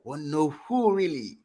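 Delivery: cutting out over a bad connection; breaking up on the line; voice going in and out. Real, not acted. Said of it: "your voice is going in and out".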